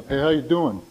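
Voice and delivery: casual New York-style hello; New York greeting. Retold or imitated. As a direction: toss it off like a New Yorker, lightly imitated. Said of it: "Something like a New York thing".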